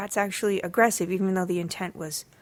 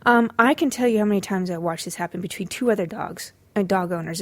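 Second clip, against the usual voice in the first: confiding whisper; whispered aside. Real, not acted. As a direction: lean in and whisper.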